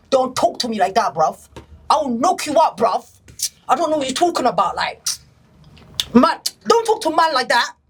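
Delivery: rude son. Retold or imitated. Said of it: "This is a son talking to their dad".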